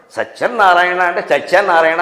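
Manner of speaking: సత్యనారాయణ with a heavy doubled n, repeated in mockery; mocked mispronunciation. Shown as a demonstration. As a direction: lean hard on the nn inside సత్యనారాయణ. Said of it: "నా కింద నా ఒత్తి పెట్టి".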